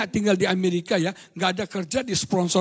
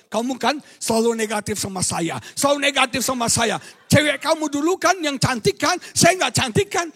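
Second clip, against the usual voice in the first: accusing wife; 3 semitones higher than usual. Retold or imitated. Wife voiced accusing her husband.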